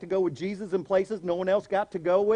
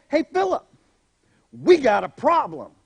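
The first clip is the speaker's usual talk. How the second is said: calling out; 2 semitones higher, 4 dB louder than usual. Retold or imitated. Jesus calling Philip about the crowd, loud alarm. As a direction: sound the alarm, half-joking.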